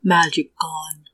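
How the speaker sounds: slow, halting creature speech; two words, dragged out. Acted. GM voices odd creature haltingly.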